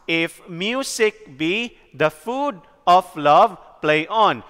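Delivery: "If music be the food of love, play on" measured out syllable by syllable; slow iambic beat through "If music be the food of love, play on"; counting out syllables. Shown as a demonstration. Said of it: "We are going to count".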